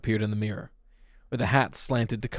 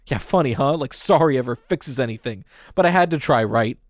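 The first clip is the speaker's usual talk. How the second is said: bitter; 3 semitones higher, 5 dB louder than usual. Acted. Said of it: "Pete laughed bitterly".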